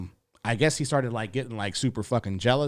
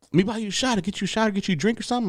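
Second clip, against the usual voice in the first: higher, eager bro voice offering a drink; eager drunk fan; 10 semitones higher, much faster than usual. Retold or imitated. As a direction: play the excited fan pushing a drink.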